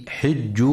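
حج with kasra, said hijj; حج read with an i after the h, hijj; correct Hafs reading. Shown as a demonstration. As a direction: say حج as hijj, never hajj. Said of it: "لكسر الحاء وعدم فتحها".

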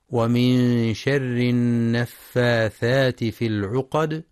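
slow measured tajwid chant; Quran recitation. Shown as a demonstration. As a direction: recite it slowly.

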